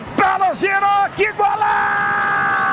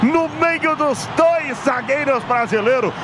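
excited goal commentary. Real, not acted. Commentator raves about the goal.

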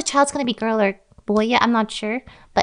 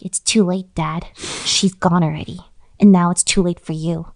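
lower, understated solemn delivery; lightly acted grave child; cold rejection; 4 semitones lower than usual. Child rejects returning father in story.

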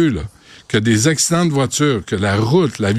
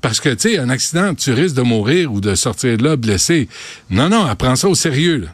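mock praise. Real, not acted. Mocks a comedian-led safety campaign.

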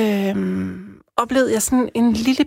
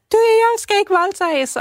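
very high, louder, terrified plea; retold desperate scream; 12 semitones higher, 4 dB louder than usual. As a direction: cry out as a woman fearing assault. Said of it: "Og hun skreg". (gengivet desperat skrig, meget lyst)

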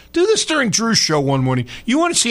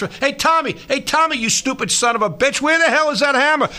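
lightly voiced bossy foreman, higher; mock foreman; 8 semitones higher than usual. Host playing a foreman calling the repair crew, mock bossy. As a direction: bark orders like a gruff work boss, playfully.

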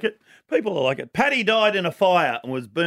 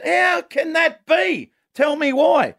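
mortician voice; 11 semitones higher, 3 dB louder, slower than usual. Retold or imitated. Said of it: "The mortician said".

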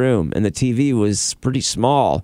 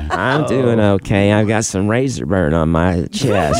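lightly voiced old lady; a hint of a sweet granny greeting; man doing granny voice. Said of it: "That was just my old lady voice".

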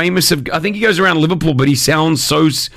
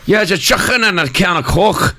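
put-on trying a Scouse accent; 4 semitones higher than usual. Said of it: "Why don't you guys try it?".

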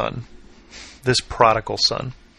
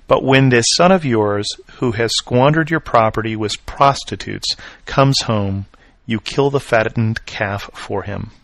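put-on a touch of the older brother's resentment, a little louder; mild anger; 4 dB louder than usual. Older brother complaining to his father, mildly aggrieved reading. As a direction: read the complaint with understated indignation. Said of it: "The older brother became angry".

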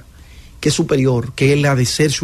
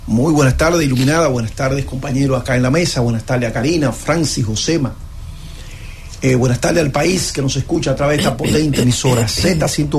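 stuffy nose from a cold; talking through a blocked nose; nasal voice; 3 semitones lower than usual. Real, not acted. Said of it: "Está hablando nasal también porque le ha agarrado una gripe".

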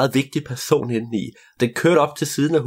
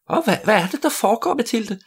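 puzzled mother; 10 semitones higher than usual. Acted. Mother voiced in story.

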